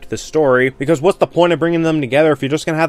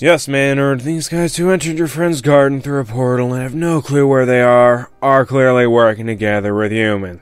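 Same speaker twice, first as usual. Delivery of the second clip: sarcastic mock agreement; 3 dB louder than usual. Sarcastic voicing of a character.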